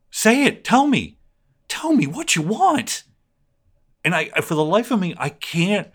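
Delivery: high-pitched, incredulous demand; exasperated pleading. Real, not acted. Pleading with absent opponents to say what they want, exasperated. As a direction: plead for an answer, pitch soaring on each question.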